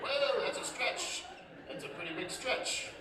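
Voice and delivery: high, drawn-out whoa of disbelief; incredulous whoa. Retold or imitated. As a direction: react as if the claim is absurd. Incredulous reaction to ad.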